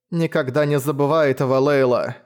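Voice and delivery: wheezed hoarse warning; wheezing. Acted. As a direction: wheeze it out, clinging on. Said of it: "просипел Гровик".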